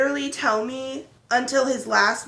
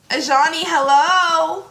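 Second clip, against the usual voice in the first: loud, drawn-out singsong call; 4 semitones higher, 7 dB louder, slower than usual. Real, not acted. Owner calling the cat to answer, loud singsong. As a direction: call the cat with a rising hello.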